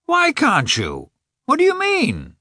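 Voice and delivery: high, drawn-out astonished question; taken aback. A narrator's reading. Oblonsky to Karenin on hearing refusal, taken aback. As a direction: ask it high, thrown by the refusal. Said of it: "quite taken aback".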